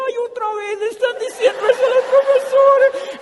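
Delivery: voz aguda y fuerte, con risa; chillido burlón. Retold or imitated. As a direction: exclama en falsete, medio riendo. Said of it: "Y yo decía". (falsete burlón entre risas)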